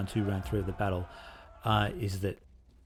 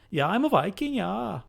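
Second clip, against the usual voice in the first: put-on much higher, jokey Australian accent; dodgy Australian Viking accent; 12 semitones higher, 4 dB louder than usual. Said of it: "what I was basing my dodgy accent on".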